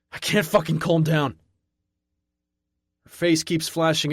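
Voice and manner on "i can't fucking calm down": higher and louder, cracking anger; desperate shout. A narrator's reading. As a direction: shout it out of control. Losing control, shouting.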